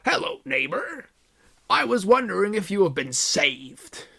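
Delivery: high, cheerful door-to-door greeting; bright exclaim. Acted. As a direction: chirp it to the neighbour. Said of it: "Hagrid exclaimed brightly".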